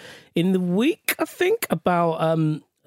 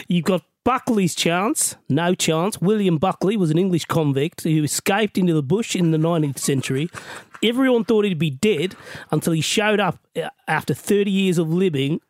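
put-on Aussie reading voice; imitation Australian accent. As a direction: read the letter as an Australian. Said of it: "do this in an Australian accent".

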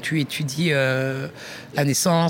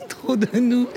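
laughing; 8 semitones higher, slower than usual. Real, not acted. Repeats phrase, then laughs.

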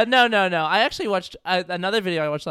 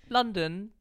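put-on London accent; 2 semitones higher, 3 dB quieter than usual. Shown as a demonstration. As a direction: say LONDON in an attempted British accent. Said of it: "Get me a second for my accent".

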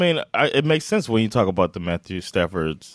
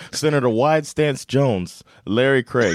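laughing; 3 semitones higher, slower than usual. Real, not acted. Laughing as he finds the name.

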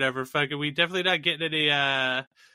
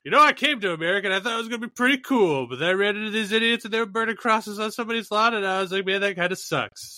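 lightly voiced chatty Jesus, raised pitch; exasperated Jesus; 5 semitones higher than usual. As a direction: ramble it out higher, mildly put out. Voicing Jesus's second word of God.

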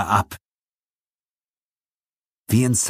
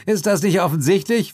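still laughing; 11 semitones higher than usual. A narrator's reading. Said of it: "fragte Suko noch immer lachend".

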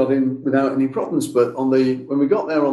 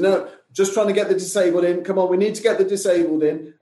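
higher-pitched imitation of a pushy helper; retold urging, pitched up but not shouted; insistent retold plea; 6 semitones higher than usual. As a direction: insist as if you were in charge. Retold argument with fake steward.

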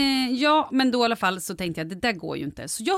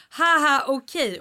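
high, mock "haha" in words; read-out written laugh; 6 semitones higher, 4 dB louder, slower than usual. Podcaster quoting a studio's message with laughing emojis, mock laugh. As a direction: imitate a texted laugh. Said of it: "så har hon gjort så här skrattgubbar".

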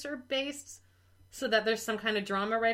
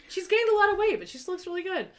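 quoting the husband; 8 semitones higher than usual. Retold or imitated. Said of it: "he just says".

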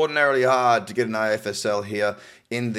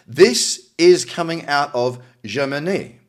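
light, unplanned French accent on Germany, a bit slow; 2 semitones higher, 4 dB louder, slower than usual. Real, not acted. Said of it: "why I said Germany with, like, a French accent".

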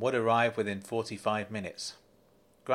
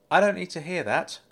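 higher, louder sharp retort; 7 semitones higher, 6 dB louder than usual. A narrator's reading. Grant snapping back at the bank manager on the phone, loud and sharp. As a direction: cut him off hard. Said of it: "Grant retorted".

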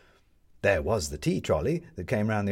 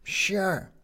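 condescending; 11 semitones higher than usual. Acted. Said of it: "as if taking one out of charity".

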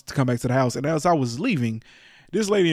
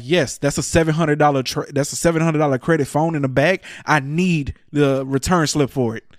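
firm irritation; 3 semitones higher, 5 dB louder than usual. Retold or imitated. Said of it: "at that point, I was mad".

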